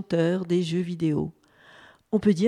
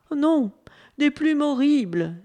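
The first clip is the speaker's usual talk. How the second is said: emphatic, higher-pitched correction; sure of himself; 5 semitones higher, 4 dB louder than usual. A narrator's reading. Wallaby corrects the hopeful bunip, sure of himself. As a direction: state it firmly, no doubt at all. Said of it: "dit le wallaby sûr de lui".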